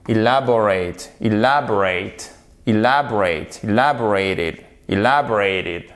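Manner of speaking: elaborate with a short unstressed "i" at the start; short I opening. Shown as a demonstration. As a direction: say elaborate as ih-LAB-orate, first E as short I. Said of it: "il se prononce comme un I court".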